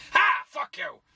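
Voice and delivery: a high, mocking cackle of a spiteful fairy; high mischievous sprite taunting; gleeful fairy taunt. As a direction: jeer at him from above like a gloating imp. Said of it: "bad luck fairy ... and go".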